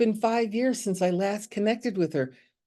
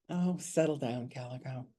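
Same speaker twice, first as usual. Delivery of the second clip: gently soothing; 8 semitones lower, 9 dB quieter than usual. Retold or imitated. Soothing herself, a soft aside.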